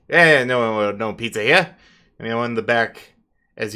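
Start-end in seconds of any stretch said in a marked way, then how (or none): 0.1-1.7 louder, brusque guard dismissal; hellhound guard. Acted. Hellhound guard turning away pizza delivery, louder and brusque. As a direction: wave them off like a bored doorman. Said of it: "Jin talked to the one in front and is like".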